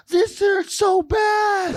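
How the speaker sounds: high, slow strained shout; movie quote shout. Retold or imitated. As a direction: belt the quote like the scene. Quoting movie scene line.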